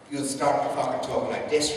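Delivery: blurred Irish and Indian accent. Shown as a demonstration. Comic showing how similar they sound, mixed Indian-Irish accent. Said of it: "Indian accent and the Irish accent are very, very similar".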